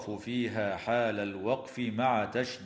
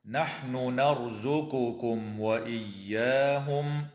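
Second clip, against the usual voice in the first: slow tajweed chant with each ن articulated clearly; Quran recitation; slower than usual. Shown as a demonstration. Teacher chanting the verse for students, measured tajweed melody. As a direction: intone the verse slowly and melodically.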